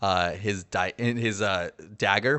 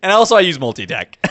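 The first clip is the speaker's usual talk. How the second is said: laughing it out, higher and louder; 12 semitones higher, 13 dB louder, faster than usual. Real, not acted. Player to the game master, laughing at his own sneaky move. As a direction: giggle through the announcement.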